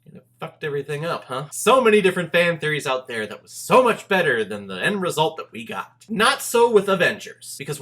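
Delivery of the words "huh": ordinary talk, nothing marked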